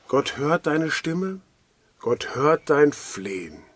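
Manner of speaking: slow, deliberate, each phrase weighted; slow emphatic assurance. Acted. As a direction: lay each promise down slowly and firmly. Preacher assures listeners personally.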